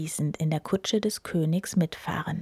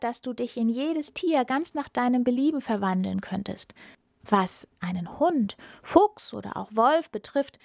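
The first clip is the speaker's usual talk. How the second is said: a cunning cat coaxing the wizard; clever cat; 3 semitones higher than usual. Acted.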